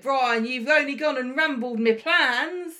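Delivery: loud, high Cockney geezer; Cockney accent. Pretend. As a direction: belt it out in Cockney. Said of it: "That's your Cockney accent".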